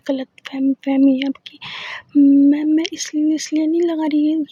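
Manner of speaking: stammering, tripping over every word; flustered stammer. Acted. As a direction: caught out, stumbling to deny. Flustered denial, stuttering. (घबराकर हकलाते हुए इनकार)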